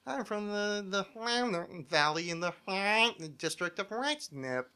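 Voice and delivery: high, slowing alien voice; drawn out like a visitor from space; Clipthorpe the alien. Pretend. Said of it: "kind of alien voice".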